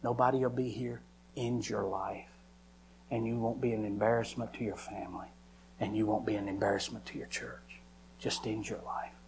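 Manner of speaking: low, quiet coaxing Satan; quiet, insinuating tempter; Satan tempting. Acted. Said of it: "Satan said".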